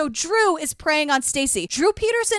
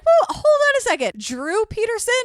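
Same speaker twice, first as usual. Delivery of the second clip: mock disbelieving cops; 7 semitones higher than usual. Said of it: "they're like".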